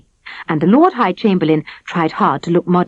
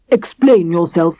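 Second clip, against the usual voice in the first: sternly; 3 dB louder, slower than usual. A narrator's reading. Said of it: "ordered the king sternly".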